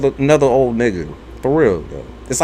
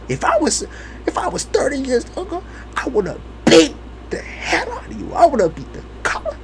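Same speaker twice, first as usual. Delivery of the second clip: higher, softer creaky granny; old grandma threat; 9 semitones higher, 6 dB quieter than usual. Retold or imitated. Grandma threatening the grandchild, high and soft. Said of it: "my grandma would say".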